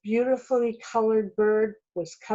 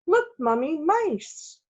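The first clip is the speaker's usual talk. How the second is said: put-on light child shout; 8 semitones higher than usual. A narrator's reading. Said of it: "shouted Jamie".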